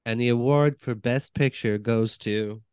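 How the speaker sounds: slow dramatic award announcement; suspenseful awards presenter. Pretend. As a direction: drag out the winner reveal. Oscar presenter announces Best Picture.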